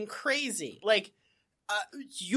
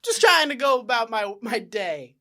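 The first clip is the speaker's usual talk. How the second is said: put-on annoyed teen; 2 semitones higher, 7 dB louder, slower than usual. Loitering kid complaining to Barney, whiny and put-upon. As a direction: whine like a teen who did nothing.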